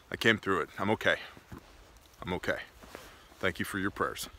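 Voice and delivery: hushed, softly trailing mock solemnity; mock-brave survivor. Host after pretend brush with spider web, mock-brave. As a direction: play the humble survivor, low and quiet.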